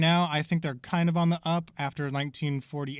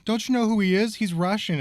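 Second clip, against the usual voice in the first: hint of an incredulous woman; 8 semitones higher, 6 dB louder than usual. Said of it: "She's like".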